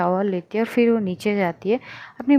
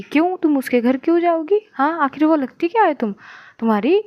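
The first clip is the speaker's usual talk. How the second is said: higher-pitched, indignant aunt demanding answers; indignant questioning; 5 semitones higher, 4 dB louder than usual. Acted. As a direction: challenge her with pointed questions. Acted quarrel, aunt questions niece. (नाराज़गी भरे तीखे सवाल)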